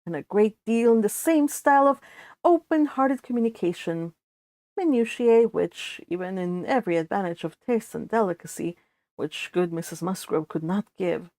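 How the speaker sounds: measured, even reading of a classic novel; story narration. A narrator's reading. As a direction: read it like an audiobook narrator. Reads novel aloud.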